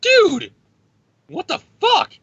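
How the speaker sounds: very high, loud cry of disbelief; shocked squeal. Retold or imitated. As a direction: shriek it way up high, stunned. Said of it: "She starts like".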